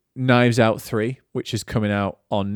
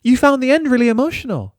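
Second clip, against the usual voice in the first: high, loud, laughing through the words; giggling sheepish sorry; laughing apology; 13 semitones higher, 6 dB louder than usual. Retold or imitated. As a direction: laugh while retelling the apology. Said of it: "And I said".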